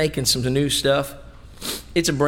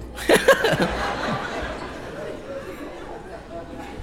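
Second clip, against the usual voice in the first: laughter; 5 dB quieter than usual. Real, not acted. Congregation laughs at cooking joke.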